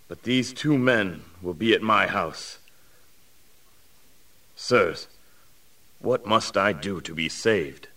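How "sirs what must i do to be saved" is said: humble plea. Acted. Humbled jailer begs for salvation.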